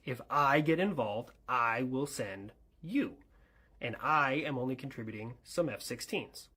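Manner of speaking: "I" set apart and punched in each clause; stress on I. Acted. Partner limiting the deal to their own part, stressing "I". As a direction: lean on every "I". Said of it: "why did you emphasize I so much".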